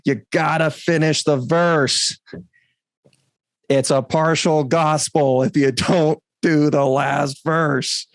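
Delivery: mild imitation of Gary insisting; Gary impression. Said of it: "I'm trying to do my best Gary impression".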